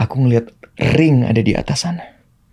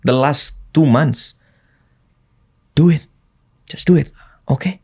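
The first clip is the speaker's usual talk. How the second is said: calming self-talk; 2 semitones lower than usual. Retold or imitated. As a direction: talk yourself down before the fight. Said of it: "aku mencoba untuk menenangkan diri".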